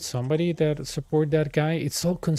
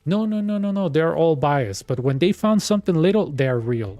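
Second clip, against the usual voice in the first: mock supporter; 3 semitones higher, 4 dB louder than usual.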